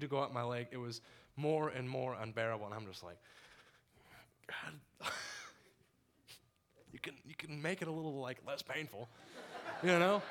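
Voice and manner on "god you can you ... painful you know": laughing plea. Retold or imitated.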